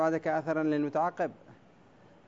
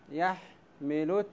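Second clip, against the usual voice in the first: يحمل stretched syllable by syllable, very slow; slow scansion; much slower than usual. Shown as a demonstration. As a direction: drag out يحمل to count its beats. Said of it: "سأقطعها بالأسود حتى يتضح". (نطق يحمل ببطء شديد مقطعا مقطعا)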